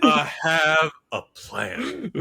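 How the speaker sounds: slow catchphrase broken by laughter; laughing Dutch quote. Pretend. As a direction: drag out the plan line while cracking up.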